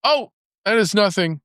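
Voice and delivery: high, breezy brush-off; sly rabbit. A narrator's reading. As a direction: wave it away lightly, voiced high. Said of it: "replied the rabbit".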